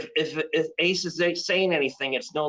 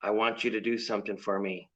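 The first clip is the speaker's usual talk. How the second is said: low, hushed devilish voice; Satan voice; 8 semitones lower, 6 dB quieter than usual. Pretend. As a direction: whisper a command like the devil. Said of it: "And Satan says".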